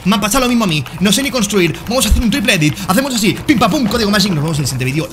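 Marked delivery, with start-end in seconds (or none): 1.9-4.3 high, excited showboating; high victory call with pim, pam, pum; triumphant hype. Real, not acted. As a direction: celebrate the win. Triumphant outro build.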